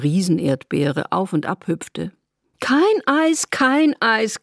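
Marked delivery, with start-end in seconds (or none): 2.6-4.4 high, louder rising call; excited cry. A narrator's reading. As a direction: sing it out high, giddy. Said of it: "rief sie aufgekratzt".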